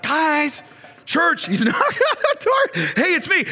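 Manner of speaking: laughing Peter. Acted. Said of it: "He's like".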